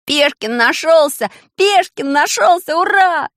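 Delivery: high, loud happy cry; joyful shout. A narrator's reading. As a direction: cheer like a delighted boy. Boy joyfully finds soldier.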